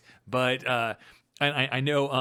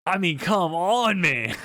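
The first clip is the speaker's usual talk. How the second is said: slow, louder, higher laughing plea; higher, louder and slower laughing complaint; laughing protest; 5 semitones higher, 5 dB louder, slower than usual. Real, not acted. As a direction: protest while cracking up. Teasing about Steve Harvey lookalike.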